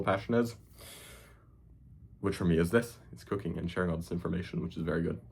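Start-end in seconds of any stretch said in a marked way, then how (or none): 3.7-5.2 mock forced cheer. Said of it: "Please believe me".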